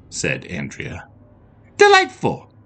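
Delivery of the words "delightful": very high, gushing delight. Acted. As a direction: squeal it with joy. Princess delighted at agreement.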